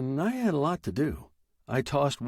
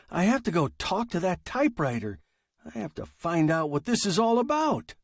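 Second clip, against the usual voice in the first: higher-pitched, worked-up storyteller; agitated Fred; 6 semitones higher than usual. Acted. Fred telling Perry about the typewriter's stories, agitated. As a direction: spill it out in mild agitation.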